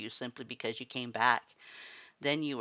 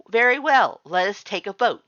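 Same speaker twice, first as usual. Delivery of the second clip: much higher, much louder commanding voice; imperious lord; 9 semitones higher, 12 dB louder than usual. A narrator's reading. The lord coldly calls the family vote. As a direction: take charge of the room.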